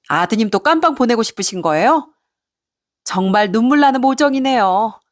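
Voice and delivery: mock the caller and dare them, voice lifted; sarcastic retort. Daughter-in-law dares her mother-in-law to try it, sarcastic. Acted sarcastic comeback on the phone.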